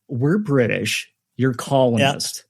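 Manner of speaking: a lightly voiced snooty British official; haughty Briton. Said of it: "If I could do a British accent".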